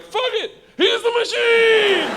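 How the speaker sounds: high, stretched-out mock roar; acclaiming shout. Russian gangsters acclaiming their new friend, drawn-out shout. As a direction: cheer the new hero with a long high bellow.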